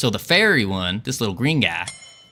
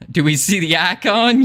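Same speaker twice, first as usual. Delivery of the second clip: put-on southern accent; 5 semitones higher than usual. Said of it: "trying to do this southern accent is real rough".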